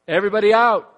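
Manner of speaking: loud urgent order; fireman shouting. Retold or imitated. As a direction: bark it like clearing a building. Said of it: "runs into a building and says".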